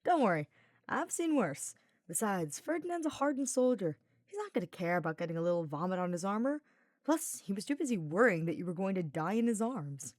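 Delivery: lightly voiced teasing knight; a hint of a cheeky young knight, grinning; Sylvain's voice. Sylvain teasing Hubert while carrying him, lightly voiced.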